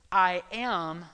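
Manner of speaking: "I am" said with weight; I am in caps. Shown as a demonstration. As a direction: lean on "I am". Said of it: "I am" is in all caps".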